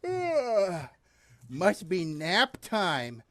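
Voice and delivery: sleepy, slow yawning. Real, not acted. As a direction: talk through a yawn. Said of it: "I can't stop yawning".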